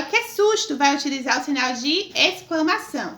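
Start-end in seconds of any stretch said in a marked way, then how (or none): 0.0-0.8 startled exclamation. Shown as a demonstration. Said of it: "Então, aí, ó".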